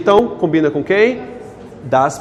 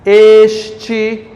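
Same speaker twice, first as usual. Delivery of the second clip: slow emphatic dictation; 4 semitones higher, 4 dB louder, slower than usual. Shown as a demonstration. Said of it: "preste atenção".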